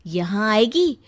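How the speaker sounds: lightly acted warning to mother; scheming daughter. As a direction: stir mother up against the brother.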